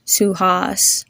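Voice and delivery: "Suhas" with ah in the second syllable, as in car; teacher's repeat-after-me "Suhas", open ah before the s; modelled "Suhas". Shown as a demonstration. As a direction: sound out "Suhas" carefully, u as oo. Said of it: "Repeat after me".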